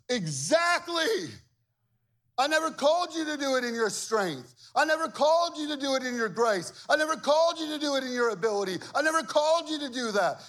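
high, loud, emphatic voice of God; God's voice. Acted. God answering a doubting believer, loud and emphatic. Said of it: "And God goes".

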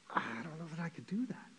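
hesitant doubt. Acted. Voices a first doubting response.

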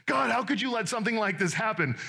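put-upon complaint, lightly acted; mock self-righteousness. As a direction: imitate someone blaming God, owning none of it. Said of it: "Do you hear the self-righteousness in their statement?".

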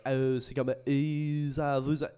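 lightly mock French hesitation; a hint of groping French filler; fake foreign language. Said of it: "that's not even real French".

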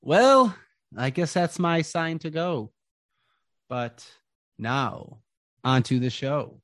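Jarrell the ringmaster. Acted. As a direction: hype the crowd like a carnival host. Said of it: "And he goes".

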